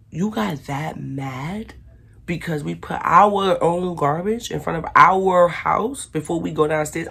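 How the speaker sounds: drawn-out, incredulous challenge; slow disbelieving confrontation. Retold or imitated. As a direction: spell it out slowly to her. Confronting the neighbor.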